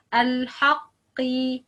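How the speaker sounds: Al-haqqi drawn out slowly with heavy q; slow Al-haqqi, q kept heavy despite the i; heavy qaf. Shown as a demonstration. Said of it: "qaf letter is heavy".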